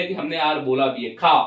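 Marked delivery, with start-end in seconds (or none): 1.1-1.4 खा said quickly with the r left inaudible; quick खा, no audible r at the end; silent-r "car". Shown as a demonstration. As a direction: say खा as English car, r swallowed. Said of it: "इतनी जल्दी कि आर वहां पता ही नहीं चले".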